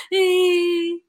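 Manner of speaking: high fake crying whine; mock child's whimper. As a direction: whine tearfully like a small child. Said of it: "él llega llorando". (gimoteo fingido, agudo)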